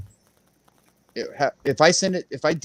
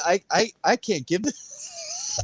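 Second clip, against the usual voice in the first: mock pleading refusal; 10 semitones higher, slower than usual. Mock refusal to trade NFT.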